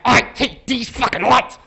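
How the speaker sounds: put-on slow, sulky toddler whine; stretched-out tantrum voice; whiny four-year-old. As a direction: whine it like a kid denied a cookie. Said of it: "like a four-year-old over a cookie".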